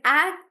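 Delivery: "agriculture" split as ag-ri-cul-ture with gaps; syllable by syllable. Shown as a demonstration. Teacher reading Rohan's farmer example, syllable by syllable. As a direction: beat out the four syllables of "agriculture". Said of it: "we break the word into syllables".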